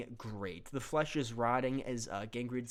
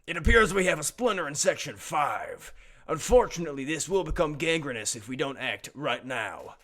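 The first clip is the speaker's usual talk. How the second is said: commander briefing; 5 dB louder, faster than usual. Acted. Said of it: "Cerebrum says".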